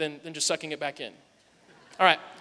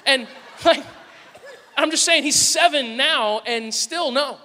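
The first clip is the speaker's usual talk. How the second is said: chuckling through the words, slowly; laughing; 4 semitones higher, slower than usual. Real, not acted. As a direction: laugh while admitting it. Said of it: "laughing at his own story".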